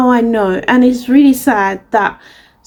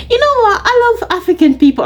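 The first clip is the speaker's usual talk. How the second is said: imitating the man; 10 semitones higher, faster than usual. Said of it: "He made another thing".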